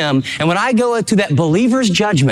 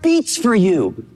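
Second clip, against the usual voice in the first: fervent preacher voicing a loving apostle; heartfelt plea; 6 semitones higher than usual. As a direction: plead it from the heart, drawing out each word. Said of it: "He's saying".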